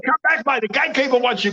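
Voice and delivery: high-pitched call to a runaway; mock calling out. Calling after the runaway Milky Bar Kid, high mock plea. Calls to absent wrestler character.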